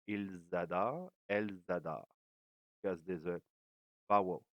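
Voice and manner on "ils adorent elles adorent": "Ils adorent, elles adorent" with each s linked as a z; liaison. Shown as a demonstration. Teacher repeating the liaison for the class. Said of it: "You make the little liaison there".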